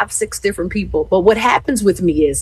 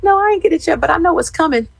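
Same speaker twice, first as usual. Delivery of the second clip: confident reply; 12 semitones higher, faster than usual. Retold or imitated. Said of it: "I'm like".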